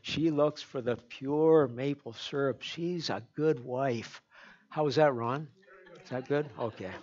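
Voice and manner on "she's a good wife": soft praise. Real, not acted. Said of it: "I'm gonna build her up".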